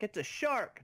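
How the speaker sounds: high, mangled "It's a shark!"; garbled speech imitation. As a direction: mimic someone who can't speak properly. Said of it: "a person that can't speak properly".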